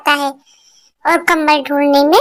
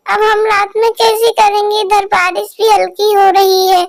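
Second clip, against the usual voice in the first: tearful; 3 semitones higher than usual. Acted. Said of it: "मीठी चिड़िया रोते हुए".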